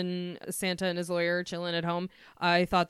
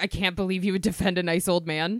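mock furious, outraged tone. Retelling a character's line to him from a film: imitating someone furious. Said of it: "she's furious at him".

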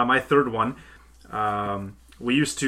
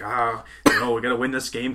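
ordinary talk

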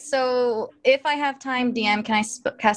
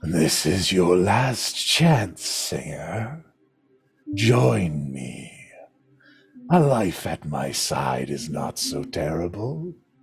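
echoing villain voice. Voicing an unseen villain offering a last chance: echoing voice. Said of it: "You hear an echoing voice throughout the halls".

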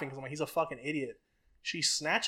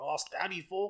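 mocking put-on voice, higher and quieter; 3 semitones higher, 5 dB quieter than usual. Retelling friends at the table making fun of a schoolmate: mocking Sergio's voice. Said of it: "we're making fun of Sergio".

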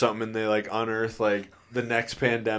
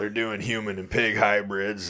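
put-on ranting voice. Joking about weird science news, doing an Alex Jones impression. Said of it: "that's my Alex Jones impression".

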